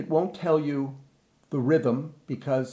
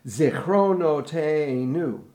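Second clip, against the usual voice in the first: slow, measured Zichronoteinu; rhythm demo with pickup; slower than usual. Shown as a demonstration. Director shows choir the second line's pickup, slow rhythmic demo. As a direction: pickup syllable, then stretch it out. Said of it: "got a pickup".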